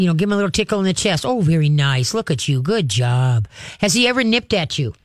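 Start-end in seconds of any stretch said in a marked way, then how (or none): 1.3-3.5 low, measured praise for a dog; verbal praise. Shown as a demonstration. Trainer showing the owner how to praise her dog, low verbal praise. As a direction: praise the dog in a lower, settled voice. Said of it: "verbal praise".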